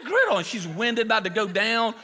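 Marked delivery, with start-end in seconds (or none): 0.1-0.4 very high-pitched imitation of a yelling customer; hammed-up, high squawk of outrage; mock yelling. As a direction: mimic a woman hollering at the drive-thru. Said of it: "she's yelling".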